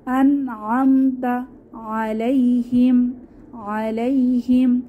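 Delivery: slow, clear recitation; tajweed reading; Quran recitation. Shown as a demonstration. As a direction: pronounce the নুন clearly. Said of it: "ইজহার স্পষ্ট করে পড়তে হবে".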